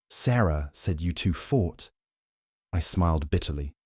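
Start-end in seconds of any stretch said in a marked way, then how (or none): 0.1-1.9 unhurried Southern Georgia drawl, lightly voiced; slow Georgia drawl. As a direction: ease into it like a Georgia mom, slow. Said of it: "in her warm Georgia drawl".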